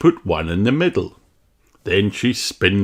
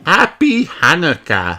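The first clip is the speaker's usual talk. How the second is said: higher, louder happy greeting; cheerful child shout; 8 semitones higher, 4 dB louder than usual. Acted. Peppa wishes everyone happy Hanukkah, cheering.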